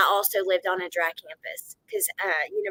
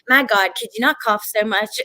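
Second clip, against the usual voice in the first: complaining commenter; 7 dB louder than usual. Retold or imitated. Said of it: "you'll get comments that are like".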